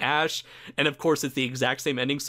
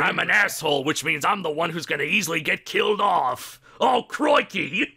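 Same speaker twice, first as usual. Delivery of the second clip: mock Australian; 4 semitones higher than usual. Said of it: "the unnecessary mean Australian man".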